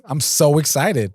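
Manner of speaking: slow mock excitement; put-on enthusiasm; sarcastic. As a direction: overplay being thrilled, dragging it out. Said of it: "you are so sarcastic".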